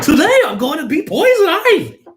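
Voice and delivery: high, loud hammed-up starlet voice; over-the-top sexy impression; mock sexy Uma Thurman. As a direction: announce it like a giddy actress. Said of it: "Uma Thurman trying to be sexy".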